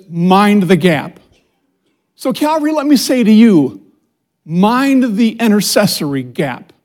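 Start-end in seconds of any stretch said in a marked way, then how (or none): 0.1-1.2 Tube announcer voice. Retold or imitated. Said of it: "it always says".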